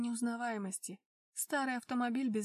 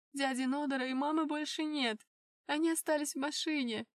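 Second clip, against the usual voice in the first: crying; 4 semitones higher, 6 dB louder than usual. Acted. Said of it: "Она продолжала горько плакать".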